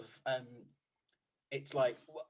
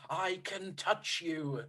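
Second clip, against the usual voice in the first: slow menacing Voldemort; 2 semitones higher, much slower than usual. Retold or imitated. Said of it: "pantomiming for the Death Eaters".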